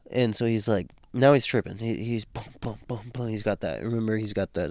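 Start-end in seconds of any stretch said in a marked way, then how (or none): 2.2-3.3 imitated heartbeat thuds. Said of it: "shoe in his chest".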